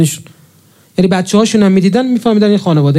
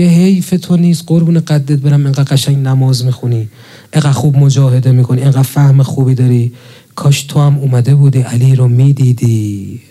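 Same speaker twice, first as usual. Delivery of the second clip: low, compassionate appeal; tender pity; 5 semitones lower than usual. Acted. Speaking to a Sunni worshipper he pities, tender compassion. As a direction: plead gently, in a lowered pitch, with affection. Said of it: "آدم دلش برای اینا میسوزه دیگه".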